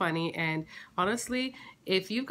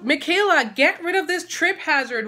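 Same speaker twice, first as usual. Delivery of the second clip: loud, high, fed-up scolding; mock-annoyed mom yelling at daughter; exasperated scolding; 6 semitones higher, 9 dB louder than usual. Real, not acted. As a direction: call her out for the trip hazard. Mom scolds about trip hazard.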